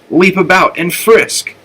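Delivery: high, bright pep talk to herself; cheerful self-urging. A narrator's reading. Flora cheering herself on to leap and frisk, voice up high. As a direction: coax yourself into playing.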